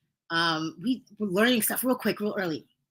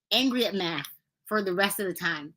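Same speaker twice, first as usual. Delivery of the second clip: usual speaking voice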